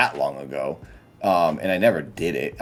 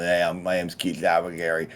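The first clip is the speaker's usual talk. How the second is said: slow lisping character voice; 3 dB quieter than usual. Shown as a demonstration. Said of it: "talking like this with a lisp and a higher voice".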